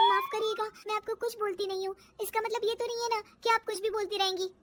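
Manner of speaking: put-on high, indignant young voice; hurt, quickening back-talk; offended protest. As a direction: stand up to her in a high voice. Daughter-in-law answers back, offended.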